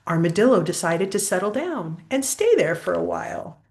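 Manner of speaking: lively, sing-song storybook reading; picture-book story voice; reading to children. Acted. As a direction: read the rhyme aloud to a child. Reads postcard and story.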